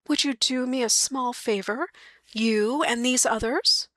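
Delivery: light wife voice, politely asking; lightly voiced wife. Mary asking a favor.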